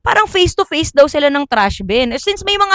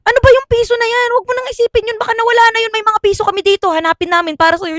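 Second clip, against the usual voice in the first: high, fast coaxing; high mock-soothing friends; 9 semitones higher, faster than usual. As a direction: talk him down quickly and high. Friends coaxing drunk classmate.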